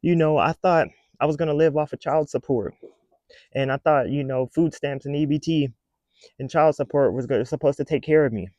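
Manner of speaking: lightly voiced complaining mother; mocking mother of nine. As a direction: parody of a woman on the internet about child support. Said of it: "She's like".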